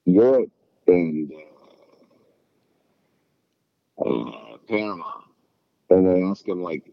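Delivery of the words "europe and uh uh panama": slow, halting answer with long pauses; imitated clueless guessing. Imitating people stumped by a geography question, hesitant. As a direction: grope for the answer, stretching each "uh". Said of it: "people are like".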